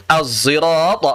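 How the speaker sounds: "az-zirat" with a heavy buzzing z; sad mixed zai. Shown as a demonstration. Teacher shows third reading, "az-zirat" blending sad and zai. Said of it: "sad yang bercampur dengan zai".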